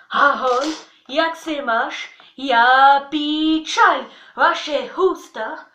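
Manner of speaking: slow, loud Czech words burped out; burp talking. Shown as a demonstration. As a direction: burp each Czech word. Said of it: "j'ai révisé mon tchèque en rotant".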